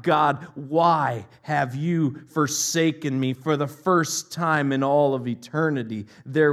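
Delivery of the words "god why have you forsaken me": anguished cry. Retold or imitated. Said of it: "And he cried out".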